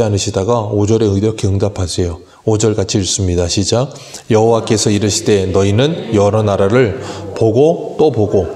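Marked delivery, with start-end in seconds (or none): 4.3-8.5 slow, solemn reading of God's words; scripture reading. Acted. Pastor reads the Lord's answer in Habakkuk slowly and solemnly. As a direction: read the Lord's reply slowly.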